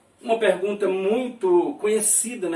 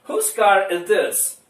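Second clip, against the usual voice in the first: slow model reading; 5 dB louder, slower than usual. Shown as a demonstration. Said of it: "Olha a frase interrogativa".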